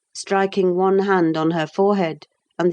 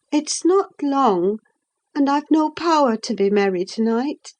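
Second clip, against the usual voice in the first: put-on lightly raised young woman's voice; young Catherine; 6 semitones higher than usual. A narrator's reading. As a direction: speak up as the restless young lady.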